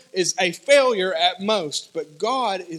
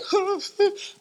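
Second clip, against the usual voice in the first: high, breathy mock sob; imitated crying; 12 semitones higher than usual. Man who lost it at being healed, imitated crying. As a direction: gasp out an imitation of someone crying. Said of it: "crying. He's, he's like".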